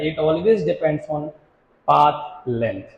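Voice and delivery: very slow, word by word, pause before the last word; slow dictation. Shown as a demonstration. Teacher dictating the definition to students, slow and spaced. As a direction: spell it out for notes, slowly.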